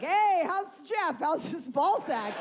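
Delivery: a hammed-up chirpy friend in the aisle; mock chirpy friend. Imagined friend at the store.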